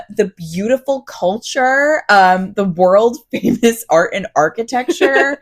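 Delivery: slow, drawn-out tongue-in-cheek gushing; feigned awe, stretching the praise; mock-grand praise. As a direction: sell it like a joke tourist brochure, slowly. Mock praise of Harrisburg, listener laughs.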